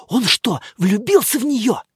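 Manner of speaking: usual speaking voice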